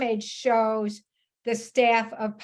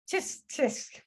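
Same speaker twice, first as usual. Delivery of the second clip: whispered, halting "just, just"; a mild whispered imitation of Jean, lost for words; breathy imitation; 2 semitones higher, 6 dB quieter than usual. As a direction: trail off in an unvoiced whisper as she did. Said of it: "I don't know how to say it right".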